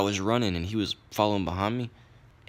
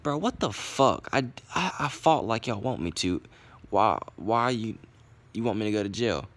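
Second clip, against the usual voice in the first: indignant disbelief; 4 semitones higher than usual. Retold or imitated. Teen protesting to the others calling the police, in indignant disbelief. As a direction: plead your case in raised-pitch disbelief. Told he's being reported to police.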